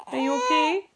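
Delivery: high, drawn-out cooing question. Real, not acted. Mother cooing to her baby.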